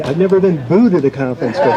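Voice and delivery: laughing it off, quick and amused. Real, not acted. Speaker laughs off the audience booing him, amused. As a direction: chuckle through the words at the crowd. Laughing while being booed.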